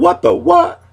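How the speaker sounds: sudden very high squeal; high-pitched mock outrage; squeaky catchphrase. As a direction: shoot the voice way up into a squeak. Catchphrase shrieked as a comeback.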